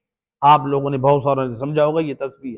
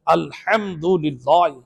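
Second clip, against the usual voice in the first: slow careful; 4 dB quieter, much slower than usual. Shown as a demonstration. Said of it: "correct slow version".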